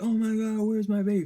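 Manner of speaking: frantic panic. Retold or imitated. Jubilee losing it when her baby vanishes, frantic high cry. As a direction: shriek it like a mother who just lost her baby. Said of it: "Flipping shit".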